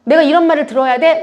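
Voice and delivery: mildly indignant, rising question; retold indignation. Church speaker reliving her hurt at gossip, indignant. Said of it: "억울해서 울었어요".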